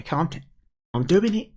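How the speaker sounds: put-on high, protesting kid voice; flustered young character. Kid giving in to the pike, flustered.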